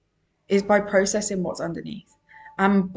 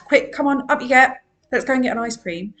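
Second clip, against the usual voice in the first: hurrying parent; 4 semitones higher, 4 dB louder, faster than usual. Retold or imitated. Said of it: "you're telling them to".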